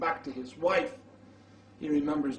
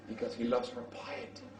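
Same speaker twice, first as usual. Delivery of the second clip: soft whispered echo, stress on "loves"; whispered repeat; 4 semitones lower, 8 dB quieter than usual. Shown as a demonstration. Preacher repeating the reason to the congregation as a hushed whisper. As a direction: lean in and breathe "loves". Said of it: "repeated softer".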